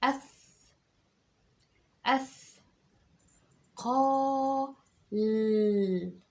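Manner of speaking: teacher dictating أثقال in pieces; syllable demo. Shown as a demonstration. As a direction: break أثقال into slow separate parts. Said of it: "اسمعها تاني مني".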